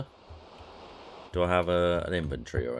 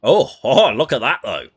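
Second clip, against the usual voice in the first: delighted laugh; 8 semitones higher, 14 dB louder than usual. Real, not acted. Delighted by no load times.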